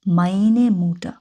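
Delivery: very slow "meine Mutter" with each word spelled out; slow German demo. Shown as a demonstration. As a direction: dictate it to beginners. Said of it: "আবার".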